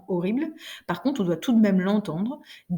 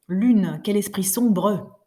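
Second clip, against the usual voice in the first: slow verse reading with the final E left floating; poetic recitation; 4 dB louder, much slower than usual. Shown as a demonstration. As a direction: let each E float lightly in the air. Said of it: "à la fin du vers, tous les E vont flotter".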